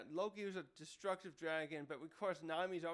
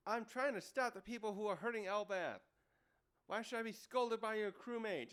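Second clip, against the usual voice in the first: mildly indignant, higher-pitched retelling; angry retort; 5 semitones higher than usual. Retold or imitated. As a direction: protest an unfair scolding, lightly acted. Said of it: "gets angry back".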